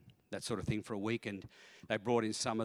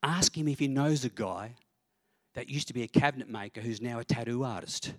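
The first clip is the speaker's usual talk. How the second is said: lightly voiced inner prompting, slightly raised; a hint of a nudging shoulder voice; little inner voice. Little voice prompting the pastor at dinner, lightly voiced. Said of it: "this little voice on my shoulder sort of says".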